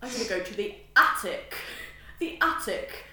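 hammed-up British accent through laughter; mock a poor English accent, amused; put-on English accent, laughing; imitated bad English accent. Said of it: "when he was like".

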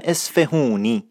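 "اصفهونی" with an added h and a long oo; outsiders' mispronunciation. Retold or imitated. Mimicking non-locals naming the dialect, outsiders' "اصفهونی" with h and oo.

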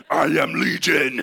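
loud, slow possessed growl; possessed mom booming at her son; demon voice. Retold or imitated. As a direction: boom it like a demon. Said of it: "you know".

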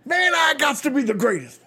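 high-pitched blustering boss voice; puffed-up screechy big shot; pompous shrill tyrant. Pretend. Boastful wrestling character bit.

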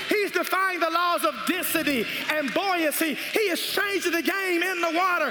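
driving, insistent sermon cadence; fervent preaching. Real, not acted. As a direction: preach it with building urgency. Preaches at full force.

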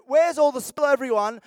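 mock-angry royal shout; frustrated king. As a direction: demand it like a furious ruler who's been outplayed. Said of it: "the enemy was getting so frustrated".

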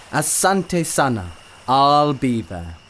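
slow, lightly voiced old man; a hint of an elderly friend.

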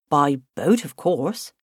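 put-on a young local guide in a broad Cornish accent; lightly put-on broad Cornish accent. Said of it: "in his broad Cornish accent".

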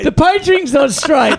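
a hint of a fussy older woman, slowed right down; imitating the matriarch. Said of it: "the matriarch says to Shaz".

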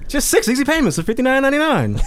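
infomercial. Pretend. Parody of payment plan ad.

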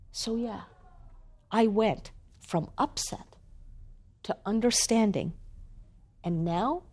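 soft, sincere retelling of a heartfelt admission; sincere, tender. Retold or imitated. Lewis softly telling Genesis he has come to respect her.

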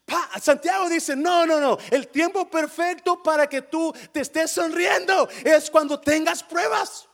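predicación muy fuerte y aguda; prédica a todo pulmón. Acted. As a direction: proclama el mensaje con toda la fuerza. (sermón encendido a viva voz)

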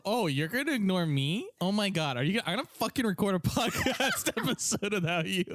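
imitated outrage speeding up into laughter; mock indignation. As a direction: act affronted, rising and quickening until you crack up. Imitating indignant co-host being ignored.

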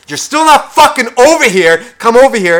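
high, exasperated shout. Acted. Failed whisperer yelling at someone to come closer, shouting. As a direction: shout them over at full voice. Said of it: "I had to get fucking get louder".

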